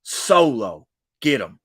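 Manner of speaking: imitating a furious boss chewing someone out; going off. Roman Reigns berating Sami Zayn, then ordering Solo, mock angry rant. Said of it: "He literally goes off".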